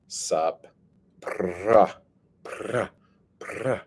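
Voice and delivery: talking around chewing gum; lazy greeting through a piece of gum; gum in mouth. Real, not acted. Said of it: "Oh, I'm, like, spitting now".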